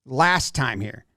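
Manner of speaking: low, slow and halting: Last time here; slow broken English. Retold or imitated. Pitcher explaining the pitch to his catcher, slow and low. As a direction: spell out "Last time here." slowly, word by word. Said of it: "it looks to me like he says".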